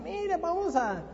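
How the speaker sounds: high, mock-tempting youngster voice; mock youth inviting to the disco; mimicking youths. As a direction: lightly voice a teen egging on friends. Youths urging going to disco.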